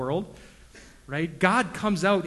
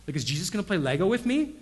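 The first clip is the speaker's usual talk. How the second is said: put-on kid voice; 4 semitones higher, 5 dB louder, faster than usual. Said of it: "But they're like".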